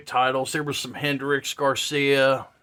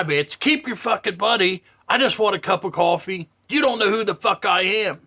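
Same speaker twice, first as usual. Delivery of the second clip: higher-pitched mock indignant rant; retold loud rant; 4 semitones higher than usual. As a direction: imitate an irate man refusing money. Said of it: "he's getting loud in the".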